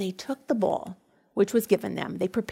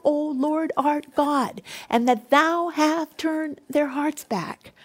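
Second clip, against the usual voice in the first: earnest prayer; 3 semitones higher than usual. Acted. Elijah's prayer voiced.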